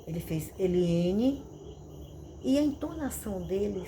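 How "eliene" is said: firm, louder call, lifting at the end; lightly voiced authoritative father; fatherly authority. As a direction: say the name as a father summoning his child. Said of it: "só quem falava assim comigo era meu pai".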